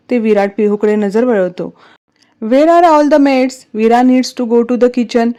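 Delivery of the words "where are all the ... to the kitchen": loud, slow, raised-pitch demand; angry. Acted. Virat demands the maids be in the kitchen, angry. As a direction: stretch the words out in anger. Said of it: "विराट रागात बोलतो".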